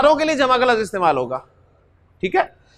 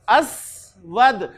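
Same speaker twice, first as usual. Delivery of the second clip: very slow drawn-out word; 2 semitones lower, much slower than usual. Shown as a demonstration. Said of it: "हुआ".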